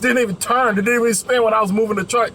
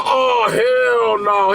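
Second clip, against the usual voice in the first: shocked shout; 4 semitones higher, much slower than usual. Retold or imitated. Mechanic under the trailer, shouting in shock. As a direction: let it out slow, shocked. Mechanic reacts to severed airlines.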